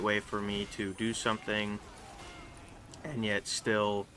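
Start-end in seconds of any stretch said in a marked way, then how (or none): 3.0-4.1 voice crack. Real, not acted. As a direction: voice cracking mid-phrase. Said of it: "morning voice crack there".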